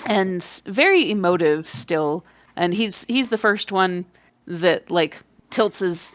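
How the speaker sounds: normal talking voice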